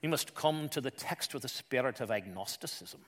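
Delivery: imitated Scottish preacher's brogue. Pastor addressing fellow pastors at a conference, imitated Scottish brogue. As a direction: put on a Scottish accent, measured and earnest. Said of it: "in that great Scottish brogue".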